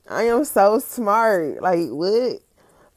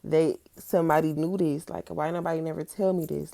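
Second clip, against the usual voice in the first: mock amazement; 3 semitones lower, 7 dB quieter than usual. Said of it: "I acted like".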